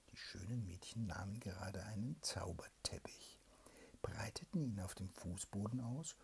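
hushed whispered storytelling; bedtime whisper. A narrator's reading. Mother reads a bedtime tale to her child, whispering.

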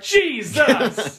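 startled yell, imitated; mock yelp. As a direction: cry out in pain. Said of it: "He's like".

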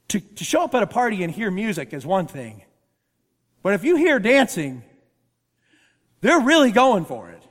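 building to a loud, delighted punchline; excited retelling. Retold or imitated. Preacher quoting his friend Matt, building excitement. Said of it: "my friend Matt says it this way".

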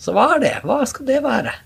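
baffled, searching for the self; puzzled. Real, not acted. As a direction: throw the question up high. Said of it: "puzzled rhetorical question".

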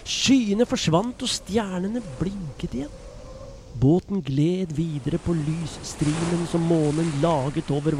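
put-on lively storyteller voice reading to children; story narration. A narrator's reading. Storyteller reading a Bible story to children, lively narration. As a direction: tell it like a bedtime Bible story.

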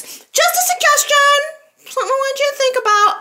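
high mock-sweet suggestion; sweetly sarcastic advice; sugary mock counsel.

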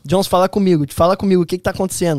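alarmed mum on a call; worried mother. Retold or imitated. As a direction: imitate a mum pressing her son for answers. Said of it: "tava minha mãe ali, tipo assim".

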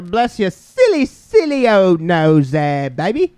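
playful British lilt, swooping pitch and drawn-out words; put-on British. Co-host teasing about a silly old nose, put-on British. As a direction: coo in a mock British accent.

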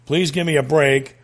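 pleading paraphrase. Acted. Acts out psalm as casual plea.

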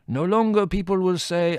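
anguished lament. A narrator's reading. Costi laments his ruin.

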